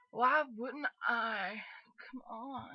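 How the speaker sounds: slow, lazy stoner drawl; laid-back stoner boy. Acted. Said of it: "Kinda make her sound like a stoner boy".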